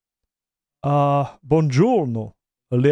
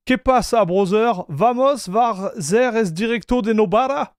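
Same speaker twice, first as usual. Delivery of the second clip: a light mock Spanish accent, pitched higher; 4 semitones higher than usual. Streamer greeting Spanish-speaking viewer in a mock Spanish accent. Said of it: "Sorry for the accent".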